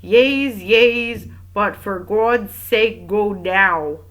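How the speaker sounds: put-on loud, slow, careful foreign-accented English; heavily accented, drawn-out imitation of English; laborious accented English. A narrator's reading. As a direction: labour through each English word with a thick accent. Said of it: "repeated carefully and laboriously".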